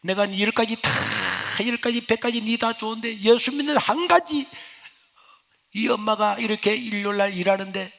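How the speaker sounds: high, wailing scolding from the mother. Retold or imitated. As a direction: scold like a mother hurt by her son. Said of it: "하며 제 어머님이 막 제 가슴을 치면서". (가슴을 치며 아들을 꾸짖는 어머니)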